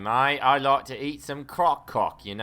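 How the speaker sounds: mock Australian accent. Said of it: "I cringe every time you guys do those accents".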